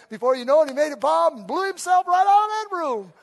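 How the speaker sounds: hyped storyteller punchline; excited build-up. Acted. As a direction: build to the big bang. MacGyver blowing out of room.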